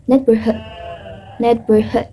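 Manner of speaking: American "neighborhood" with the R sounded; American rhotic "neighborhood"; American pronunciation. Shown as a demonstration. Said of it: "in American accent, pronounce the R".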